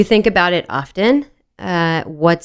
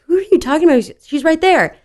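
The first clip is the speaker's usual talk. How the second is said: confused mock; 10 semitones higher, 3 dB louder than usual. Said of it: "And I was like".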